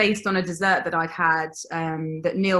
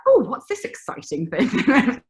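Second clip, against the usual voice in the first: higher, louder, slow, wide-eyed mock wonder; mock excitement; 6 semitones higher, 4 dB louder, slower than usual. Baker recalling market customers, in slow, mock-amazed wonder. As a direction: play a curious market customer, slowly. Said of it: "everyone was like".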